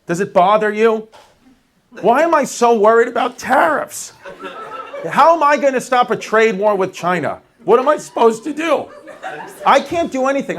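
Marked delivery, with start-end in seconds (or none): 2.0-10.6 higher-pitched, worked-up comic exasperation; exasperated rant. Acted. Comic rants to the crowd about tariffs, exasperated. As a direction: plead helplessly, pitch climbing.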